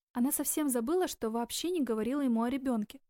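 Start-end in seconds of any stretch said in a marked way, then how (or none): none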